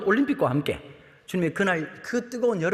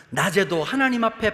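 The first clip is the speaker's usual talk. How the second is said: ordinary talk, nothing marked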